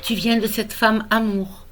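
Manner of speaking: measured, tender poem recital with pauses between lines; poem reading. Acted. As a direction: read your own poem to a newborn, phrase by phrase. Recites own poem to grandson.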